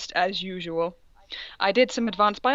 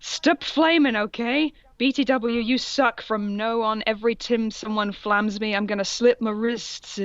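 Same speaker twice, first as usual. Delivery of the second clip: mock author voice. Reading the author's note in character.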